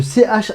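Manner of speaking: "ch" as a back-of-throat rasp; German ch sound. Shown as a demonstration. Teacher explains the German C H, "ch" as guttural kh. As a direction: scrape "ch" in the throat, no vowel. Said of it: "se prononce".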